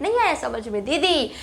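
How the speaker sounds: ordinary delivery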